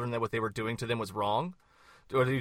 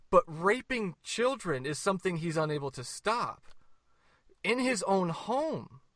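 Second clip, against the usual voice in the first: heated, sarcastic list, pitched up, slowing at the end; rapid fire and emotional; 4 semitones higher than usual. Real, not acted. Debater hammering his point at the host, heated and sarcastic. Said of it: "rapid fire and emotional".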